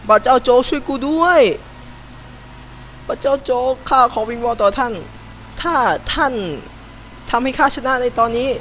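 3 beg the heavens like a pious supplicant; 4 a gamer prays to god Joke, mock-solemn pleading; 1 mock prayer.

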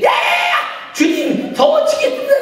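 high, loud urging shout; shouted command. Retold or imitated. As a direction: yell the vow at him urgently. Mother shouting the vow to son. (아들에게 서원을 외치라고 소리치는 엄마)

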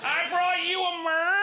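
loud, high Northern Irish wise man; Northern Irish accent. Acted. Northern Irish wise man presenting his gift to Jesus, proud Northern Irish accent. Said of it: "did it in the voice there".

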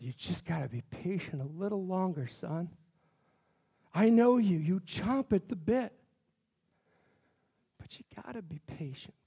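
low, soft, fatherly voice of God. Retold or imitated. God tells the impatient pastor to wait, low and soft. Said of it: "And he said".

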